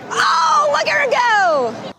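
high, whooping cheer; excited cheer. Real, not acted. Reporter cheering a fan's touchdown dance, excited cheer. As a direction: cheer them on, voice shooting up.

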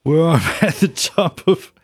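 lightly voiced Brummie rocker reading a fan letter; a hint of a rock singer, mostly his own voice, laughing now and then; rock singer impression. Podcast host reads a listener's letter as a rock singer, lightly mimicked. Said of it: "I'm gonna read it like Ozzy Osbourne".

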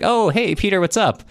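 casual hello in the middle of battle; cheery Cossack. Acted. Cossack leader greets mid-battle.

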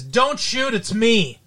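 flat, limp imitation of a bad line read; mocking wooden acting. Host mocking Brandon's weak line reading, flat and limp. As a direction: say it like an actor who doesn't mean it. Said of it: "Like that".

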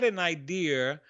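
slight New York accent on "idea". Real, not acted. Host slipping into her own accent mid-explanation, New York accent. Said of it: "that was my New York accent".

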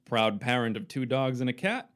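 swooping ring-announcer delivery; mock announcer introduction. Host introducing Norbert to everyone, grand announcer voice. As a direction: roll out the guest's credentials with showy emphasis.

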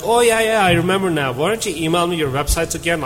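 high, breezy fake recall; fake friendly brush-off. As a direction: play it off like you suddenly remember. Matt feigning recognition, brushing off.

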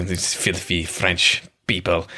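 slow, low mock French accent. Film character disparaging French lovers, in a mistaken French accent. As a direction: put on a French accent and stretch it out scornfully. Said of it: "saying that in a French accent".

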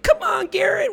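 high, thin froggy squeak; Kermit the Frog voice. Retold or imitated. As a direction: croak it out like Kermit. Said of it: "with his, like, weird little Kermit the Frog voice".

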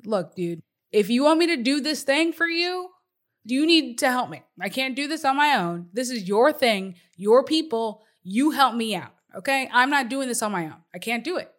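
sassy, insistent pushback. Acted. Moses demanding that God help him out, sassy. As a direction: talk back to God like an exasperated friend. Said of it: "he got real sassy with God and was like".

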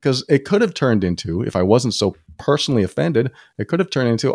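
ordinary talk, nothing marked

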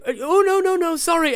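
high, loud hurried sorry; flustered apology. Acted. Goddess calming frightened adventurers, high flustered apology. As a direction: backpedal quickly and apologetically.

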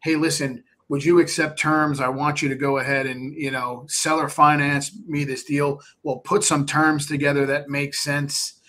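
brisk salesy jargon pitch; mock investor pitch that confuses the seller; jargon-heavy pitch. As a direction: rattle off the finance terms like a pushy investor. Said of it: "So when I hear people go".

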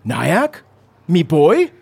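a lightly voiced broken-English father; calling for his son, simple and fond; caveman dad. Father Ron spots his son in the salon, lightly voiced caveman dad. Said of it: "Ron looks up and says".

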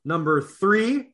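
lightly hyped emcee calling the order; announcer. Acted. Announces the night's running order.

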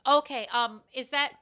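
mock-hesitant actor's pushback; passive-aggressive actor. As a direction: push back on the note with fake politeness. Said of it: "the passive-aggressive actor thing".

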